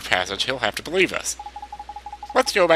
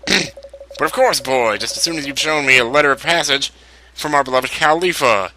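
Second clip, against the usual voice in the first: grand, hammed-up captain; 4 semitones higher than usual. Captain's mocking grand reply.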